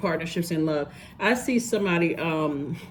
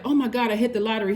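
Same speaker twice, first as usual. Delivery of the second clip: higher and quick, thrilled at a lottery win; excited cry; 4 semitones higher, faster than usual. Retold or imitated. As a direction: gush it out like you just won big. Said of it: "we were so excited".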